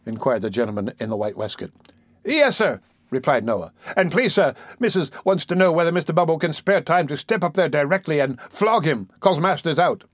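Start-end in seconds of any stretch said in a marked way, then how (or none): 2.2-2.8 put-on eager tattling boy. Noah voiced. 4.0-10.0 put-on eager tattling boy. Noah voiced.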